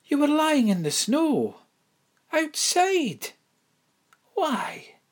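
high, startled disbelief; shocked. Acted. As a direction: gasp out the questions. Shocked headmistress questions girl.

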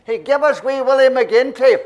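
loud, slow heckling call; crowd shout. Retold or imitated. Audience member yelling a request at the comic, slow loud shout. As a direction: drag it out across the theatre.

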